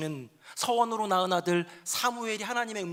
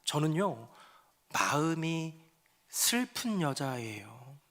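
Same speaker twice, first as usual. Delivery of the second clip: sad woman pleading; slower than usual. Acted. Hannah answers the priest, slow and sorrowful. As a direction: answer the priest gently out of grief. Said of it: "한나가 대답합니다".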